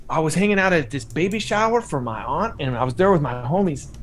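put-on lightly done Chicano gangster accent; an understated old-school Chicano accent from Whittier; a hint of cholo Chicano accent; Johnny's Chicano accent. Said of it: "I'm doing his, his accent".

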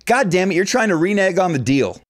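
imitating an angry shout, not at full force; retold shouting. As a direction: bark it back like the GM losing his temper. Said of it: "By now, he's shouting".

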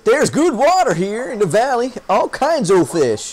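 a hint of folksy sailor; old fisherman voice. Fisherman showing the valley's water, light folksy voice. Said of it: "talk like that guy".

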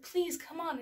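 pleading. Retold or imitated. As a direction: beg a kid to cooperate. Retold pleading with daughter.

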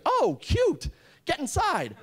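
high, playful coo; flirty bouncer coo. Retold or imitated. Bouncer to the new guy at the door, high flirty coo. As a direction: purr it with a flirty wink.

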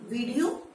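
"वीडियो" with long VEE, rising as a question; wrong pronunciation. Shown as a demonstration. Teacher voicing learners' answer, mispronounced with long vowel. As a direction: ask "वीडियो" as VEE-dee-yo. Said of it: "इसे वीडियो नहीं बोलते".

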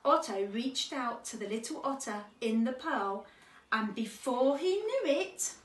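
measured picture-book reading; children's story narration. Acted. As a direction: read gently paced to young children. Reads a children's story aloud.

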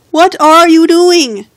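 drawn-out tickled yelp. Real, not acted. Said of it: "She's tickling me".

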